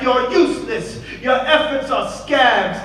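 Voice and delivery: high yelling with a laugh. A narrator's reading. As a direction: spit it back mockingly. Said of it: "she yelled back".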